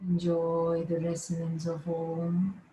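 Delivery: measured yoga nidra instructions with long pauses; guided relaxation. Real, not acted. Yoga teacher settling students lying down, guided relaxation. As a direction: guide them into rest, phrase by phrase. Guidance after the chant.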